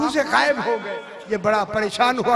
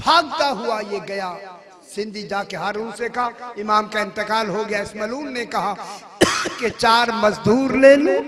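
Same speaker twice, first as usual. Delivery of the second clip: hushed telling; 5 dB quieter than usual. Acted. Hushed narration of death.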